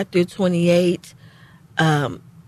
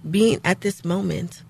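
getting emotional; 5 dB quieter than usual. Real, not acted. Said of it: "you're getting emotional".

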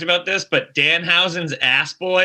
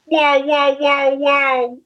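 amazed wow; 7 semitones higher, much slower than usual. Real, not acted. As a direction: gasp it out in amazement. Amazed at wrestling moment.

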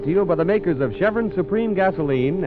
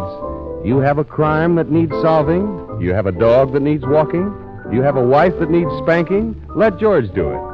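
ad read out loud; 3 semitones lower, 5 dB louder than usual. Acted. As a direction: read the ad like a sales pitch. Reads the ad aloud.

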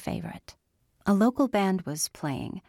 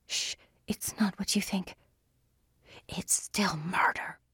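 fierce whisper; 5 dB quieter than usual. Acted. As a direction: hiss it under your breath. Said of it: "he whispered fiercely".

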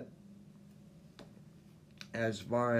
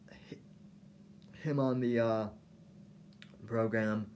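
dry mouth, swallowing between words; talking with a parched dry mouth; slower than usual. Real, not acted. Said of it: "I've got a dry mouth".

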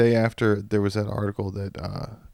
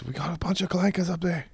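clone trooper voice; 7 semitones higher, 4 dB quieter than usual. Retold or imitated. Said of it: "All the clones call the".

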